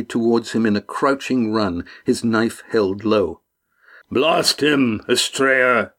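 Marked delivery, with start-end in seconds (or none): 4.1-5.9 mild shout, pitched up; narrated shout in mid-charge. A narrator's reading. Arneb runs past Astrea at the enemy, shouting. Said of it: "he shouted as he ran past".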